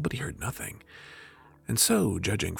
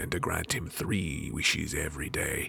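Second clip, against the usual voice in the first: jinn recounting captivity; 4 semitones lower than usual. Acted.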